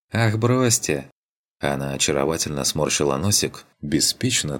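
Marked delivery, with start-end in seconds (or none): 0.1-1.1 light woman's voice. Acted. Героиня отмахивается, кокетливо.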